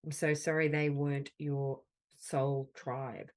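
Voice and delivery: slow, gentle words of comfort, pausing between them; tender affirmation. Acted. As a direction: soothe a hurt friend, unhurried.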